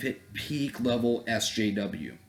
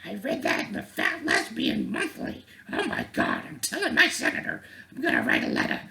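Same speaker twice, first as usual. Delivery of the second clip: offended girl mockery; 11 semitones higher than usual. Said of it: "She's like".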